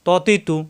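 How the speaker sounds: "ত, তি, তু" thick, first vowel rounded, never taa; heavy emphatic t. Shown as a demonstration. Teacher correcting a likely slip, "ত, তি, তু" thick. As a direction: say "ত, তি, তু" with a full heavy t. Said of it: "তা হবে না কিন্তু".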